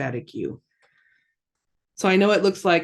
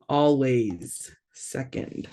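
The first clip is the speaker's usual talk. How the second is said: "Always second" slowly, each word set apart; slow emphatic repeat; 2 semitones lower, slower than usual. Shown as a demonstration. Teacher stressing a grammar rule to learners, slow and emphatic. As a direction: drive home "Always second" with a pause between words.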